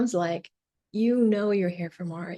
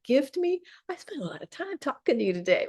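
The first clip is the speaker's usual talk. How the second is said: voice going up; 5 semitones higher than usual. Real, not acted. Coach after a long talk, voice going up. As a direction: voice rising higher. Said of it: "My voice is going up".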